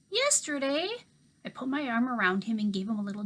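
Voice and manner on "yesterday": put-on disbelieving boy. A narrator's reading. Toby repeats in disbelief.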